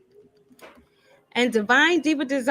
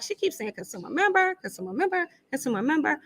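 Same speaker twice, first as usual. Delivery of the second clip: lightly mimicked, higher-pitched repeating voice; a hint of a puzzled onlooker's higher voice; imitating a viewer; 5 semitones higher, 3 dB quieter, faster than usual. Host mimics a viewer noticing her repetition, lightly imitated. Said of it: "she was like".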